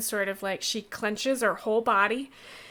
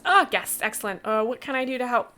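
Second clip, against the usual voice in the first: high, bright dog greeting; a helpful dog, keen to please; lightly voiced eager dog; 4 semitones higher, 3 dB louder, faster than usual. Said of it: "trots in and says".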